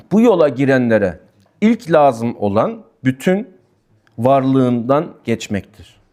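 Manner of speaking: very slow, weighing each word; slow, solemn, deliberate; slow emphatic reading. Shown as a demonstration. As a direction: read it out slowly so every word lands. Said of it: "Yani ne diyor burada?".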